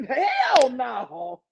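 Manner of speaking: laughing, shouted hell no; shouted refusal. Retold or imitated. Refusing the girl's kiss, shouted. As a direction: yell the refusal with disgust.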